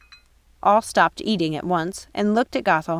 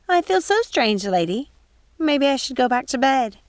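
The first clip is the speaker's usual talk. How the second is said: high, puzzled housekeeper voice; wavering, lost old woman; confused old woman; 7 semitones higher than usual. Acted. Mrs Tittlebottom asks Gothel about her fall, confused.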